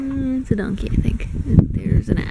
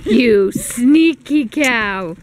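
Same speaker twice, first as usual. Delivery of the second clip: playful scolding; 3 dB louder, much slower than usual. Acted. Teasing a cow at petting zoo.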